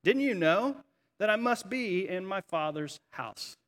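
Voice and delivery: unhurried, gently puzzled question; calm, gentle, matter-of-fact. Acted. Boy Jesus answering his upset parents, calm and matter-of-fact. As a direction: answer calmly, with no fight in it. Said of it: "very matter-of-factly and calmly and gently responds".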